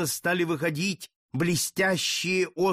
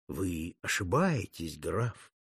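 lower, softer, slow and gentle; affectionate tone; 8 semitones lower, 5 dB quieter, slower than usual. Acted. Cardinal suddenly sweet-talking the count, gentle and low. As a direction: soothe him sweetly, falsely kind. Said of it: "вдруг ласково обратился".

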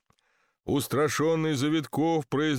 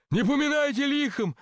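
distant farewell call; 12 semitones higher than usual. A narrator's reading. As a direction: call goodbye from far off in a blizzard. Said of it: "донеслись из поднявшейся метели слова Завиткова".

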